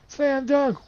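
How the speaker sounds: high, loud cheer; excited slam dunk call; excited shout. Real, not acted. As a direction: yell it like you just dunked. Excited basketball shot.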